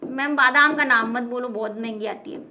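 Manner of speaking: low, hushed aside as a student; mock student plea. Imagined student begging the teacher about pricey almonds, mock hushed plea.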